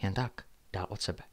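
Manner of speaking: measured, hushed suspense reading; low-key storyteller with deliberate pauses; story narration. A narrator's reading. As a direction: read a mystery aloud at night. Narrates a night-time story.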